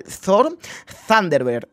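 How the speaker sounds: "Thorn" and "Thunderbird" both said with a Spanish "th" like in "zona", one right after the other; said to sound alike. Shown as a demonstration. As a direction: show how "Thorn" and "Thunderbird" come out almost the same, both starting with a lisped "th". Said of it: "se pronuncia igual".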